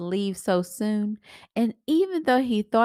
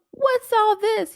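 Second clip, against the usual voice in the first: high, loud, drawn-out surprise; startled big brother asking the crew; surprised; 14 semitones higher, 5 dB louder than usual. Acted. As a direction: shoot up in disbelief.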